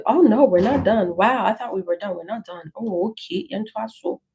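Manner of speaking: usual speaking voice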